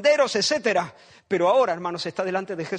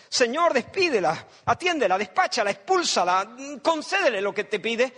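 fed-up disciples; 2 semitones higher than usual. Acted. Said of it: "la escenita ... es".

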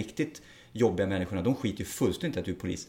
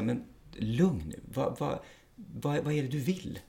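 slow, softer, unprovoked reply; acted calm de-escalation; 3 semitones higher, 4 dB quieter, slower than usual. Police officer to an agitated person he is settling, calm. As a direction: calmly talk someone down, unhurried. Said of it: "Jag brukar bara vara lugn och bara säga".

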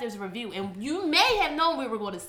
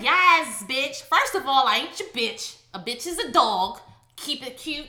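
sassy woman quote; 4 dB louder, slower than usual. Retold or imitated. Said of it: "They be like".

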